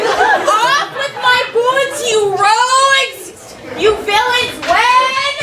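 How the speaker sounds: yelling master. Acted. Petruchio yelling at servants.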